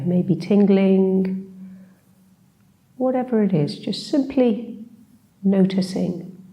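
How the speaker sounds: unhurried meditation guide, long pauses between phrases; guided meditation. Acted. Teacher leading a short seated body scan, calm guided meditation. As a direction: gently guide them through a body scan, leaving space.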